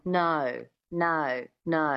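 Australian "No" with a schwa slipped in before the O. Shown as a demonstration. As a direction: repeat the Australian "No" slowly for the listener. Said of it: "If you can hear it now".

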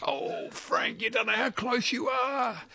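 high exclamation over a near miss; high-pitched, playful exasperation; agonised near-miss reaction. Real, not acted. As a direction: tease him with how close he is. Host reacts to a near-miss answer.

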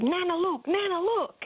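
put-on high little girl's voice, eager; child voice. Granddaughter showing Nana her toy cars, high and eager. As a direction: play the excited toddler tugging at Nana.

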